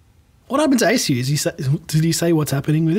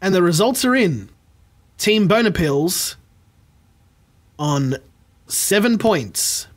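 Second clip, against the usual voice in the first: game show host; slower than usual. Acted. Game show host announcing results.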